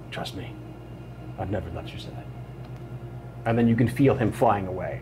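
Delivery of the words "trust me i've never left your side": pixie. Acted. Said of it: "he says".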